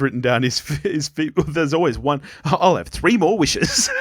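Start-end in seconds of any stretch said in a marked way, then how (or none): 2.4-3.9 slow, higher-pitched quote with a lift at the end; slow, playful character impression; Rachel. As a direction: imitate a sitcom line, drawn out and raised. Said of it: "the way she says it".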